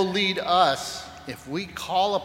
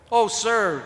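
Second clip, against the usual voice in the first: glad cry of relief, higher and louder; cried out; 8 semitones higher, 6 dB louder than usual. Acted. Servant finding the lost prince, joyful cry. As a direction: call out in joy at finding him. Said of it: "cried one".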